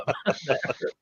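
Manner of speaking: laughing through pain. Real, not acted. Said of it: "It hurts to laugh".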